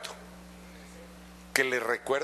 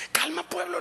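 soothing the flock; 13 semitones higher than usual. Retold or imitated. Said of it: "les decía".

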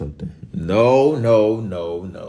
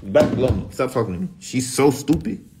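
high angry rant; 7 semitones higher, 4 dB louder than usual. Real, not acted. Cussing out Siri, shrill, high and loud.

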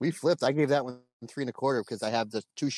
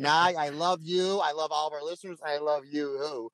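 playful reassurance; 4 semitones higher than usual. Real, not acted. Mock reassurance to co-host and listeners.

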